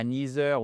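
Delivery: NEITHER with a z for the th, NEE-zer; wrong th sound. Shown as a demonstration. Teacher mimics learners' shortcut, mispronounced th. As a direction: swap the th of NEITHER for a French z. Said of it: "et pas neither ou neither".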